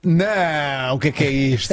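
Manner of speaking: high, stunned disbelief; amazed disbelief. Real, not acted. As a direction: react as if it can't be real. Reacting to a backheel goal.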